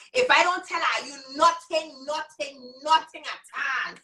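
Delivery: emphatic Virgin Islands accent, hammering the repeats. Real, not acted. Teacher insisting her group really get this, Virgin Islands accent. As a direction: slip into a real VI accent. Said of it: "My accent changing right now".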